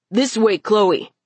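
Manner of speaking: urgent call, mildly pleading. Acted. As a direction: urge her to follow. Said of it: "Amo pleaded".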